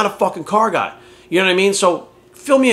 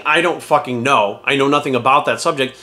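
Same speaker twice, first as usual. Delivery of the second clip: slow honest admission; 2 semitones lower than usual. Shown as a demonstration. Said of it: "people will respect you more for saying".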